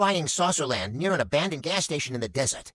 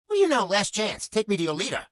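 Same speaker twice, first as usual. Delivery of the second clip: higher, insistent captain's ultimatum; last-chance demand; 4 semitones higher than usual. Acted. Alien captain gives gas pump last chance, insistent demand. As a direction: press the order as a final warning.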